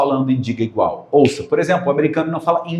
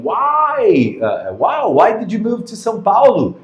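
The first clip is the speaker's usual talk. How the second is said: American friend; 7 semitones higher, slower than usual. Retold or imitated. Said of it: "a pessoa falou assim pra mim".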